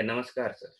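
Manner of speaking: a soft, low-energy namaskar; quiet greeting. Shown as a demonstration. Doctor imitating a second patient's greeting, soft. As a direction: mumble the greeting softly like a weary patient. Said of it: "कितना फर्क है?".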